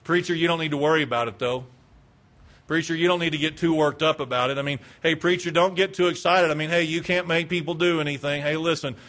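acting an unbothered churchgoer; low-key brush-off to the preacher; indifferent. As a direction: talk him down as if nothing matters. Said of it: "They were indifferent".

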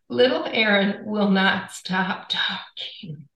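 slow, drawn-out quote of the TV; imitating TV line. Wife quoting the TV to podcast host, slow and deliberate. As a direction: space the words out slowly, one by one. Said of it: "I hear one sentence and one sentence only".

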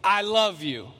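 a loud "I love you"; loudly. Acted. God declaring love loudly to the unworthy. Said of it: "God says really loudly".

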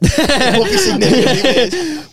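slow, loud and high through laughter; laughing. Real, not acted. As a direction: drag it out while cracking up. Laughing reaction to the dilemma.

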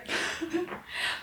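quiet, high breath of laughter; giggle. A narrator's reading. Tipsy woman amused by her slip, softly giggling. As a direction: let out a small soft giggle.

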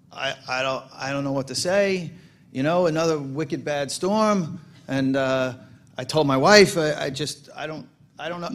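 the mayor of Boston, stammering in a deliberately bad Boston accent; a clumsy Boston accent, caught with nothing to say; mock Boston accent. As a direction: overdo the Boston vowels while lost for words. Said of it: "I'm gonna do the Boston accent wrong".

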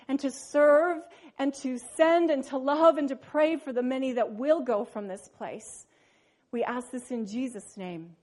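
hushed pulpit prayer; earnest prayer. Acted. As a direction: pray it humbly to God. Pastor prays before the sermon.

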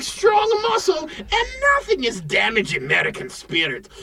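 hammed-up patriotic shout; rally the buyers with a yell; shouted pep talk.

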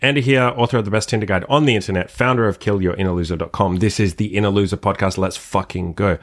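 punchy show-opener announcer delivery; podcast intro. Acted. Host welcomes dirty-talk lovers to the podcast, punchy intro. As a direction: kick off the show like a cheeky host, drawing out the last words.

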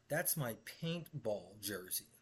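lightly voiced boss, slow and flat; a hint of the smug boss. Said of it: "He says".

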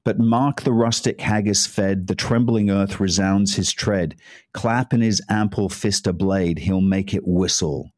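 deliberate Burns translation reading; poem recital. Acted. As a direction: read it like a solemn recitation. Reads Burns poem in English.

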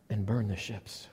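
a low, grave general's order; commanding general. Acted. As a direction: give the order like a calm conqueror. Cortez orders his main guy.

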